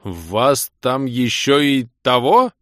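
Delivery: slow, high, loud, puzzled ask; surprised loud question. A narrator's reading. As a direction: ask in honest amazement. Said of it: "искренне удивлённый и громко вопросивший".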